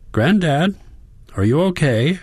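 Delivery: worried granddaughter calling out; a worried granddaughter on the phone, worked up. A narrator's reading. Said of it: "She sounds worked up".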